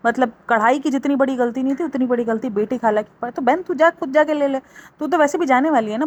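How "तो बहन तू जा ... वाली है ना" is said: sarcastic jab. Real, not acted. Sarcastic address to sister.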